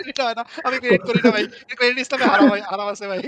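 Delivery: mocking high voice. Mock reply in raised pitch.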